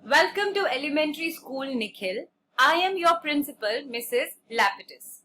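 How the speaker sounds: measured, formal welcome; story dialogue read aloud. A narrator's reading. Principal welcomes a new pupil, measured formal greeting.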